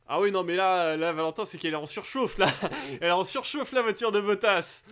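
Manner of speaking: fast, laughing through the words; amused chuckle while calling it. Real, not acted. Laughing at overheating remark. (en riant, débit rapide)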